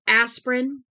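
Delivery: loud, high, outraged disbelief; a mother snaps at a man's useless advice, outraged; furious astonishment. A narrator's reading. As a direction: hurl the word back at him in disbelief. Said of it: "Her tone was one of furious astonishment".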